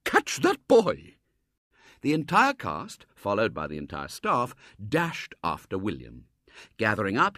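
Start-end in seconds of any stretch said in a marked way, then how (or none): 0.0-1.2 slow, loud, high breathless call; panted shout. A narrator's reading. Headmistress to staff, loud panting call. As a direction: call the chase, winded. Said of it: "panted the headmistress".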